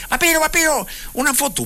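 high excited fan voice calling his name; eager fan calling. Retold or imitated. Host imitating a fan asking Vampiro for a photo, high and eager. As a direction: call out like a starstruck young fan.

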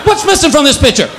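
neutered cat wailing to his owner; outraged neutered cat. Retold or imitated. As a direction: cry out like an insulted cat showing off his loss. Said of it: "It's like".

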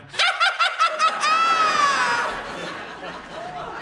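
very high sudden shriek; mock unhinged scream-laugh; shrieking cackle. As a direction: blurt a wild maniac cackle. Girlfriend's sudden outburst.

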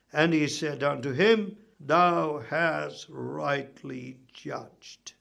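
low, measured Bible reading; scripture reading. A narrator's reading. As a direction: read the passage aloud solemnly. Reads scripture aloud.

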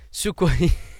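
breaking into a laugh mid-question. Real, not acted. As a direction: laugh through the words. Laughs over a rival team.

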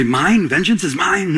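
mock questioning "mine?"; lightly acted doubter's query; questioning objection. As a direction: toss it back as a listener's doubting question. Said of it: "You might say".

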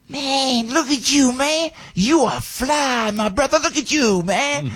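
high, admiring mock voice; old-timer's praise. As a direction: gush with delight at the sharp suit. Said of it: "and he goes".

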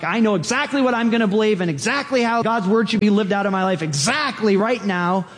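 arrogant certainty. Acted. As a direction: rattle it off with total certainty. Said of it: "that's pretty arrogant".

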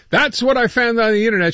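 wry, disapproving tag line; head-shaking disbelief. Real, not acted. Host reacting to a viral clip, dryly disapproving. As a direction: say it like you can't believe it. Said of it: "she says, shaking her head".

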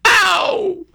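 high laughing yelp; high shouted mock ow. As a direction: shout it like you got hit, laughing. Imagines woman's reaction.

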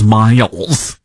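drawn-out mock Michigan vowel; lightly put-on Michigan accent. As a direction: exaggerate the name in Michigan accent. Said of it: "that's my Michigan accent".

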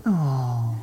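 low, soft, drawn-out "ohhh"; imitated "aww". Preacher mirrors the congregation's reaction, cooing softly. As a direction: echo a crowd's tender coo. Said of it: "See, you just did it".

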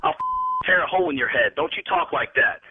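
low, seething warning; angry threat. Real, not acted. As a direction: warn him off, temper about to go. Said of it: "this type of violence".

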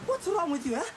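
mocking, incredulous; dismissive laughter. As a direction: laugh away her grief. Laughing off her accusation.

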